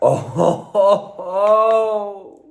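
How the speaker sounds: high, loud burst of laughter; laughing. Real, not acted. Laughing at something funny.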